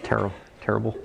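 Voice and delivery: a light hint of Charles Barkley saying "Terrible, terrible"; mock sports-pundit "Terrible, terrible" in a barely shifted voice. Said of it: "in the voice of Charles Barkley".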